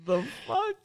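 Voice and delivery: very high, drawn-out disbelief; shocked. Retold or imitated. Viewer reacting to the shooting scene. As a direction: stretch it out, squeaky and stunned. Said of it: "I was like".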